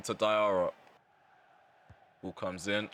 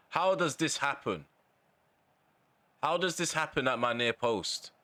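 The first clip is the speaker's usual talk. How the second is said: exasperated outburst; 6 semitones higher than usual. Real, not acted. Keeper concedes, gamer fumes.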